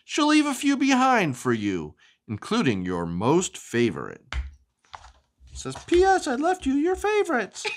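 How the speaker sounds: lively, sing-song storybook reading; animated picture-book narration; reading to children. Acted. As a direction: read it like bedtime story time for a child.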